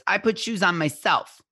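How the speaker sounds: a hint of a small child insisting; three-year-old voice. Parent retelling a toddler's words, lightly childlike. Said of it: "says in that three-year-old voice".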